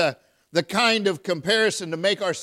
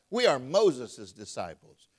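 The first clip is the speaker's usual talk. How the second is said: proud comparison; 5 semitones lower, slower than usual. Retold or imitated. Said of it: "that's comparison".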